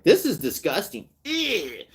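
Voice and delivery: exaggerated "ew" for a child; teaching a child what disgust looks like; high mock teaching voice. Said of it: "A child should be told".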